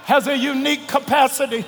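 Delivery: shouted gospel preaching. Acted. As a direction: preach it at full force. Preaching at full force.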